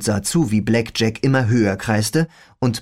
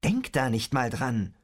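low growl; 8 dB quieter than usual. Acted. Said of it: "knurrte ich".

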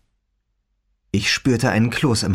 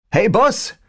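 whispery telepathic voice; 11 semitones higher, 3 dB louder than usual. Acted. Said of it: "sagte eine Stimme in meinem Kopf".

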